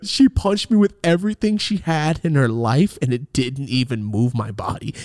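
usual speaking voice

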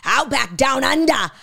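slow, loud mock announcer in an Australian accent; ad guy impression. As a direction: boom it like the TV commercial guy. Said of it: "those commercials with that guy".

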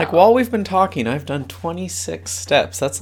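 high, loud, quick boast; bursting with pride; excited. Real, not acted. Proud of step count.

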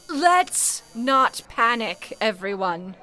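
put-on slow, commanding call to the switchboard girls; firm call for calm. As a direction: draw it out firmly over the noise. Supervisor calming panicking operators.

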